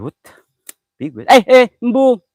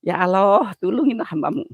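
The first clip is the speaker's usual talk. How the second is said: mock trembling fear; 6 semitones higher than usual. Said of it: "Aku gemeteran".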